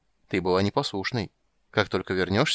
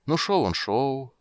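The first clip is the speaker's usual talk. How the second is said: slow storytelling; 5 semitones higher, slower than usual. Acted. Story rhythm.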